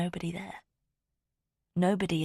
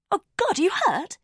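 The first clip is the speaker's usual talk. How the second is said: higher, louder worried gasp; sudden concern at the blood; alarmed; 6 dB louder than usual. A narrator's reading.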